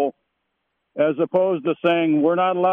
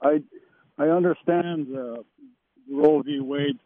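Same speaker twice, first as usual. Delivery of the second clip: faint, off-mic caller; phone held away. Real, not acted. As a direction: voice fading from the phone. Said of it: "talk into the phone. We're losing you".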